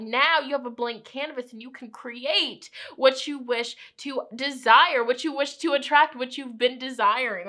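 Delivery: tongue-tied, tripping over words; stuttering. Real, not acted. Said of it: "I'm stuttering, I'm getting tongue-tied".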